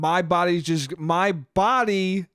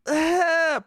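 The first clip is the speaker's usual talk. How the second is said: short, high strained "ah"; pained grunt; 12 semitones higher than usual. Shown as a demonstration. Actor showing the weak shot reaction, pained grunt. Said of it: "pained face".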